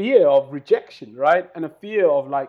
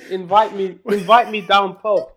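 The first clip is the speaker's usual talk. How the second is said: put-on Yorkshire accent; 5 semitones higher, 6 dB louder than usual. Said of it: "fantastic Yorkshire accent".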